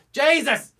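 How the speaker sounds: loud, high, slow bellow; exasperated shout. Retold or imitated. Bartender-style shout at patrons ignoring last call. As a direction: roar it at the lingering crowd. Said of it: "I just went".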